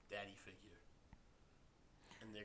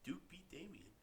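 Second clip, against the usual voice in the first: whispered aside; 7 semitones higher, slower than usual. Real, not acted. Teasing spoiler aside.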